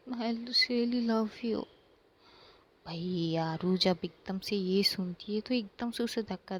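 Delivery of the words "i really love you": Isha slowly confessing to Aaru, tender; slow heartfelt confession. Acted. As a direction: let the love sink in slowly.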